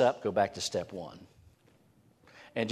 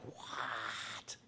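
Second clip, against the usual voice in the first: much higher, incredulous voice for the crowd; mock baffled crowd; 12 semitones higher, slower than usual. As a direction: play the crowd as baffled that he asks. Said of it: "And they'll go like".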